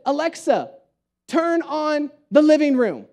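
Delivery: slow imitation of a bossy small child; authoritative. Three-year-old commanding Alexa, authoritative. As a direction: give a deliberate command, word by word. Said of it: "he says it so authoritative".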